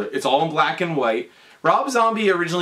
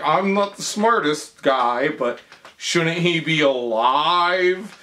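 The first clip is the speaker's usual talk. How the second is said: slow hesitant assistant; slower than usual. Retold or imitated. Acting slow-witted assistant.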